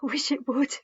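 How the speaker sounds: whispered through tears; a grieving boy's final hushed wish; broken whisper. A narrator's reading. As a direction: let it fall to a bare whisper. Grieving boy ends his story.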